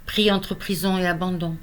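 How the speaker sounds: measured lament, lifted openings and falling line ends; poetry recital. Acted. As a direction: recite a poem of lost love with pauses. Reads third poem of lost love. (poème déclamé, posé)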